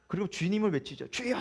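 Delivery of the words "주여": mock prayer cry. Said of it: "삼창".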